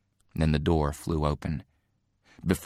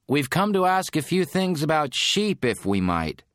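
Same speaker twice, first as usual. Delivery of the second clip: calling through a door; 11 semitones higher, 4 dB louder than usual. Acted.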